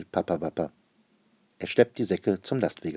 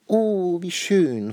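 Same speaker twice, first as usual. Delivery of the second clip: very high, loud, thrilled exclamation; queen overjoyed when the letter arrives; delighted cry; 10 semitones higher, 6 dB louder, much slower than usual. Acted. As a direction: burst out with joy. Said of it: "ruft sie".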